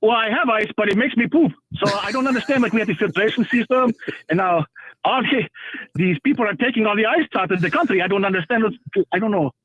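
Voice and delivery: put-on Middle Eastern accent, lightly done; a hint of Middle Eastern accent; fake Middle Eastern accent. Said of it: "carry a bullshit accent".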